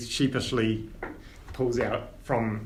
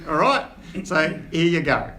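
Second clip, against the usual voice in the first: higher and laughing through a Cockney boast; laughing dwarf father; 11 semitones higher, 6 dB louder than usual. Acted. Dwarf dad boasting to his son, laughing. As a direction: chuckle through the heirloom story.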